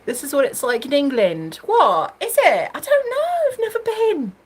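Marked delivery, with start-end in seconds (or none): 1.6-4.3 high-pitched, playful disbelief; mock surprise. Teasing a viewer about England, mock surprise. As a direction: act amazed, sky high.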